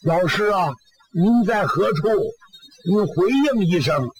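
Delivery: mild calling out. Acted. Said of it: "沙僧也喊".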